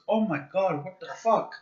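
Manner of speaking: high mock-shocked quote; imitated exclamation. Quoting Pow's catchphrase, high imitated exclamation. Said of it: "the guy who goes".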